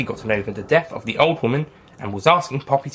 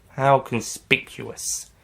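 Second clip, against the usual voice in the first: sarcastic; much slower than usual. Acted.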